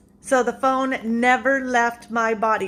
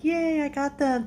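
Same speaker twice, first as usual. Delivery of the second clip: mildly excited, higher drawn-out yay; retold delight; 5 semitones higher than usual. Shopper celebrating getting crab legs for less, mildly excited. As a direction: act out a slow little cheer.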